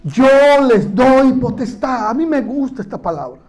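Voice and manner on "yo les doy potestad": aloud together. Shown as a demonstration. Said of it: "Vamos a decirlo juntos en voz alta".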